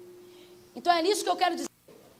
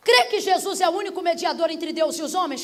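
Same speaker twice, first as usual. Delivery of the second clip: forceful preaching question; challenging question; 4 dB louder than usual. Real, not acted. Preacher quizzing the doubter on belief, challenging question. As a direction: put the creed to them as a challenge. Rapid challenge before the altar call.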